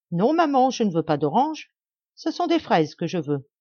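high, loud insistent whine on Non, maman; whining spoiled child. Acted. Rose refuses oranges, whining to her mother. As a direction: demand it like a spoiled brat.

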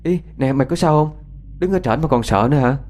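put-on high, startled girl's voice asking if her friend is hurt; alarmed. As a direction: sound suddenly frightened for a friend. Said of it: "nó hoảng hốt".

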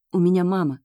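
ordinary delivery, nothing marked

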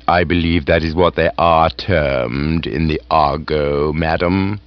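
calm, unruffled butler replies; deferential butler. Acted. Jeeves answering the aunt's questioning.

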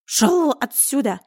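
slow, loud warning to never come back; furious hiss. Acted. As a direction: spit the words at the beaten cat. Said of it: "прошипел Миун".

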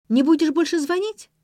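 high and loud, perking up; a hopeful girl asks the caller if he will stop; eager hopeful question. A narrator's reading. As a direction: ask it with sudden hope. Ksenia perks up hopefully.

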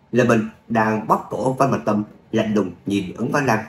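measured audiobook-style storytelling; story narration. A narrator's reading. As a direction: narrate an action tale with light character voicing. Story narration after own chat.

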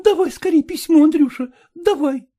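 impatient. Acted. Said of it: "Арина не утерпела".

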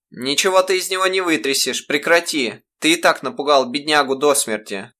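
a mother angrily rebuking her husband; indignant scolding. Acted. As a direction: stand up to the bully. Mother stands up to father.

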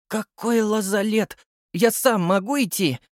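object, offended; indignant. A narrator's reading. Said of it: "возмутился я".

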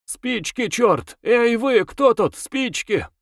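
high-pitched bossy yell. A narrator's reading. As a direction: holler for matches, pitch well up. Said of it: "заорал".

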